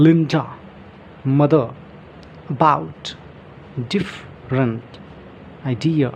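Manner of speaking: लिंडा, मदर, about, different, idea said slowly, stressed syllable clear; schwa demo. Shown as a demonstration. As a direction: show the quick schwa in each word. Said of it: "झटका वाला vowel". (श्वा का उच्चारण दिखाना)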